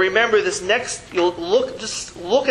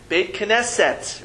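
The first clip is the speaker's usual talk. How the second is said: 1 slower repeat; 2 semitones higher, slower than usual. Shown as a demonstration. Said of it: "what is that word again?".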